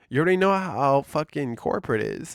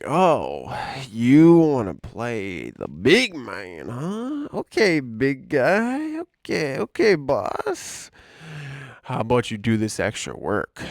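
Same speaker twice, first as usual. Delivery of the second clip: slow, louder sarcastic taunt; mock taunting boss; 4 dB louder, slower than usual. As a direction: sneer like a boss testing you. Imitating bosses taunting him.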